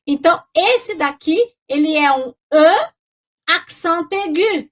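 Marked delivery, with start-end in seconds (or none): 3.5-4.7 accent aigu said in careful French, slowly; French pronunciation. Shown as a demonstration. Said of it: "Repete aí comigo". (pronúncia francesa, devagar)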